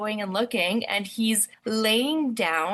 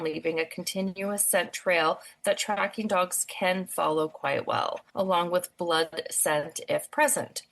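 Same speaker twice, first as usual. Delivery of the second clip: even, measured news-report voice; steady factual bulletin delivery; news read; 2 semitones lower than usual. Acted. Reads news script.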